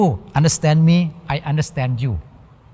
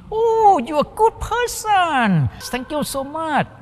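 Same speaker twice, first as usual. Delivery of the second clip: a much higher grateful oh, then slow thanks; acting out the forgiven person thanking the other, high and delighted; 11 semitones higher, slower than usual. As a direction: gush with relief, voice jumping up.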